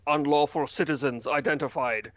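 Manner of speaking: lightly imitated flat robot voice. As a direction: say it like a cold machine reading a verdict. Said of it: "in his, you know, robot voice".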